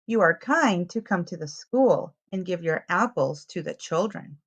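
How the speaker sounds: lively picture-book read-aloud; reading to children. A narrator's reading. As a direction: tell it to little ones, clearly and brightly.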